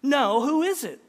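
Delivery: high, loud challenge; acted impatient comeback; dismissive retort. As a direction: demand it like an unimpressed wife. Wife retorts in story.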